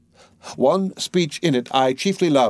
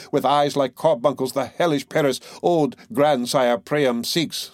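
declaimed recitation. Acted. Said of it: "well spoken, with good accent and good discretion".

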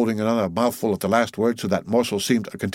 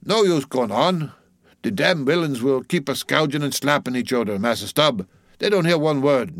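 put-on old ship's cook in dialect, pitched up; old cook complaining; 5 semitones higher than usual. Old cook to his mate Stubb, complaining in dialect. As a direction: protest that preaching is useless.

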